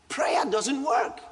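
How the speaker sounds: preacher shouting it to the congregation; slow shouted declaration. Acted. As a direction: proclaim it slowly at full voice. Preacher repeats claim louder.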